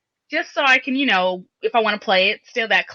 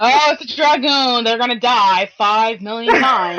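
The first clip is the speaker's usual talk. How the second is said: mocking teammate; 4 dB louder than usual. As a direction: jeer like a snobby player. Mocking teammates' view of dragoons.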